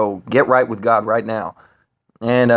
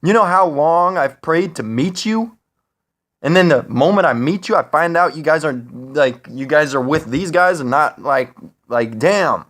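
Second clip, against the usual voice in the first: higher-pitched, indignant complaint; retold pissed-off outburst; 5 semitones higher than usual. Man confronting the Nordics who revealed themselves, retold pissed off. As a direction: re-enact being pissed, pitch pushed up. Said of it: "I was really pissed".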